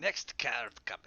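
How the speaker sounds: hushed, slow whisper. Real, not acted. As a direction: breathe the words softly. Whispered aside.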